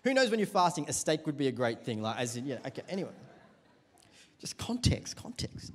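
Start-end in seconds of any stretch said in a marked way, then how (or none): 4.4-5.7 breathy whisper, just the air; whispered aside. Real, not acted. Pastor slips a joking aside to the congregation, whispered. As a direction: tuck it in under your breath.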